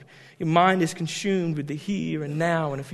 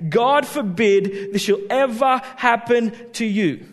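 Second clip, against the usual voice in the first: God forbid this shall ever happen to you, slow with GOD stressed; slow, weighty protest; emphatic quote; 4 semitones higher, 5 dB louder than usual. Shown as a demonstration. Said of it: "what Peter was actually literally saying".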